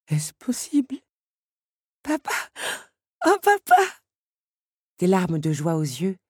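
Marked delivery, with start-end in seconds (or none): 0.1-1.0 whispered disbelief. A narrator's reading. Father stunned, whispering. 2.0-3.8 high, rising loud cry of papa; joyful cry. A narrator's reading. Belle calls papa in joy, louder and higher.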